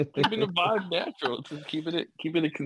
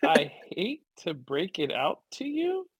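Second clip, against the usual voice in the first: laughing; 2 semitones higher, slower than usual. Real, not acted. Laughing at misread line.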